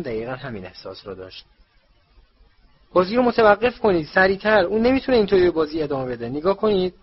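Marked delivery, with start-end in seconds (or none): 2.9-6.9 urgent high, loud shout; loud, high-pitched plea to the officials. A narrator's reading. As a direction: yell for the game to be stopped. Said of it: "هری فریاد زد".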